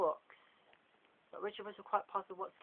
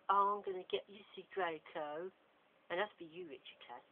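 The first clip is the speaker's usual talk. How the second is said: angry threat; 3 semitones higher than usual. Acted. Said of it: "says James in anger".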